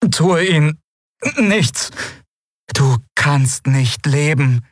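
high, slow, melodic and eerie; inhuman creature voice. A narrator's reading. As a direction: echo his words slowly, alien lilt. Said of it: "sagte das Wesen auf seinem Rücken".

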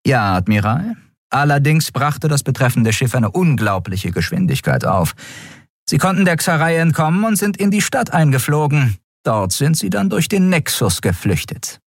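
brief the admiral urgently; lightly voiced officer. A narrator's reading. (knappe Meldung an den Admiral)

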